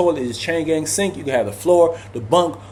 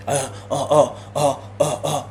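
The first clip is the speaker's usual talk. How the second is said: imitating an old man's stammering uh uh; quiet stuttering uh uh; mock stutter; 5 dB quieter than usual. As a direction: stammer it out like you're lost for words. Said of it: "He just kept stuttering".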